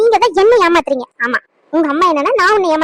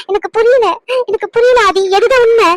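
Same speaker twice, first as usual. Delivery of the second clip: distraught demand; 3 semitones higher, 3 dB louder than usual. Acted. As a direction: demand the truth, rising to an outburst. Quarrel, demanding the truth. (ஆவேசமாக உண்மையைக் கேட்கும் குரல்)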